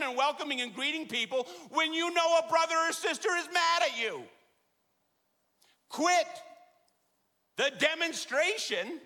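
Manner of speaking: impassioned plea voiced as Jesus; fervent preaching. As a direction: preach it with rising urgency. Preacher voicing Jesus, building.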